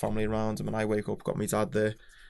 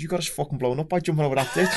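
laughing through the words, pitched up; laughing while telling him; 5 semitones higher, 5 dB louder than usual. Retold or imitated. Telling his mate he caused the blast, laughing. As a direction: crack up as you break the news. Telling Ian how they got blown up.

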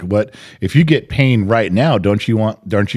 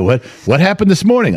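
mock Forrest Gump; 8 semitones higher than usual. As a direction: play a simple-minded Forrest Gump asking it. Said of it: "almost a Forrest Gump moment".

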